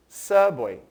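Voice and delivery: subway said the English way, for students to repeat. Shown as a demonstration. Teacher models subway for students to repeat, in English pronunciation. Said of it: "Mais uma vez".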